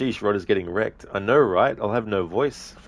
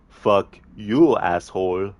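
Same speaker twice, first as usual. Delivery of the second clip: louder Arnie-style retort with you hit hard; a hint of Arnie, loud and flat; Arnie's comeback; 5 dB louder, much slower than usual. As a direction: throw the insult back as Arnie, punching the word you. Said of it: "the Arnie movie scene impression".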